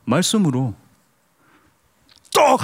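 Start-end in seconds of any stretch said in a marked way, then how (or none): 2.3-2.6 short, high, loud shout; Jesus's command. Pretend. Pastor playing Jesus creating bread by word, sharp shouted command. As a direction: call the bread into being with one shout. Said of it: "예수님은 가장 편안하게 어떻게 하면은".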